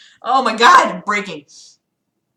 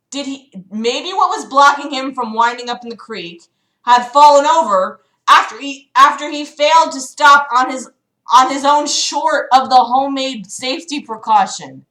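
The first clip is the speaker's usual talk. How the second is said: louder, disbelieving second read; incredulous reread; 2 semitones higher, 5 dB louder than usual. Shown as a demonstration. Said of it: "What the fuck did I just read?".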